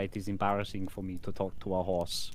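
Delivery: tongue held between fingers; holding tongue with fingers. Acted. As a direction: talk while pinching your tongue. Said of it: "I can speak with animals".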